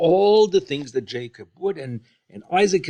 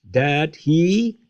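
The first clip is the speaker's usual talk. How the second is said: upset; 4 semitones higher, 3 dB louder than usual. Retold or imitated. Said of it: "Esau, um, is very upset".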